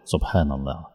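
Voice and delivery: low, soft sigh of wonder; hushed awe. Real, not acted.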